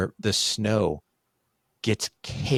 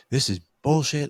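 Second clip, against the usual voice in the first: higher-pitched indignant mock outburst; retold outburst; 7 semitones higher, 3 dB louder than usual. Dad going nuts about the dog, retold indignant outburst. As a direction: re-enact losing your temper. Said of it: "Like, I went nuts".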